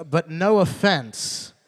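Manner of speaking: mock apology. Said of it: "looks at me and goes".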